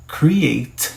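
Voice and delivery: "Create" said cleanly, falling at the end; model word create. Shown as a demonstration. Teacher points students to the sound of create. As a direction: let students hear each sound of "Create". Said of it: "Olha o som".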